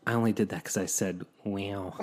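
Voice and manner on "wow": soft imitated actor's wow; Owen Wilson. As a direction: drawl it like the film actor. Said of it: "Owen Wilson voice".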